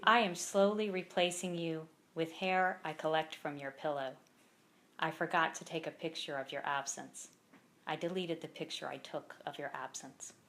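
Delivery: measured poem recital with pauses between lines; poem read aloud at a live reading; poetry reading. Acted. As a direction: read each line deliberately, letting it land. Reads own poem aloud.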